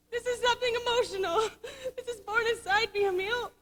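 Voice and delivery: a broken little laugh caught in tears; half-laughing through tears. Acted. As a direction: confess it through a teary laugh. Confessing prejudice to fiancé.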